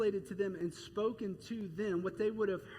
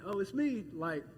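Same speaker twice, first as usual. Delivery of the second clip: casual greeting; 2 semitones higher than usual. Pretend. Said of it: "this isn't really casual".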